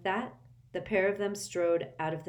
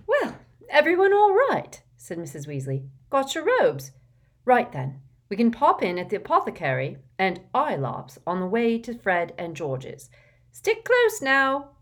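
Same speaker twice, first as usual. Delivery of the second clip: bustling mother; 6 semitones higher, 9 dB louder than usual. A narrator's reading. Mrs Weasley bustling the children along.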